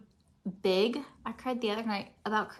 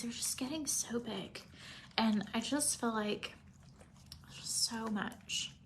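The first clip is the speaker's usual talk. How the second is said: tearful whisper; 7 dB quieter than usual. Real, not acted. Mom tearful about kids growing.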